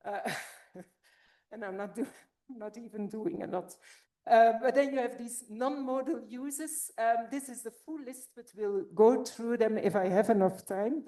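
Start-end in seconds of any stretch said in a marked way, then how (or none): 4.3-11.0 out of breath. Real, not acted. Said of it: "That's why I'm out of breath".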